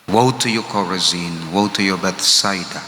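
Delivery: grieved lament, not anger; sorrowful pity. Shown as a demonstration. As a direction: say it with a broken heart. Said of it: "not express anger, but sorrowful pity".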